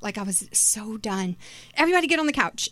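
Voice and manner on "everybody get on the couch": mildly raised mom voice, pitched higher. Retold or imitated. Fed-up mother sending her kids to the couch, mom voice. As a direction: order them like a fed-up mom. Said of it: "mom voice came out".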